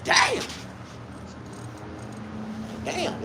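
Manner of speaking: high, strained squeals of discomfort; mock pain. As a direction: yelp like your aching balls hurt.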